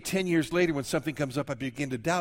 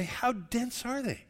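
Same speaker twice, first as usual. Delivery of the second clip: exasperated aside; 10 semitones higher, slower than usual. Retold or imitated. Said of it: "I look at these guys and say".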